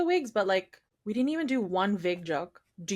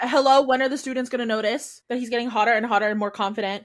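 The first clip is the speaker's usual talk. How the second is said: mock exasperation; 3 semitones higher, 5 dB louder, faster than usual. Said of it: "I was like".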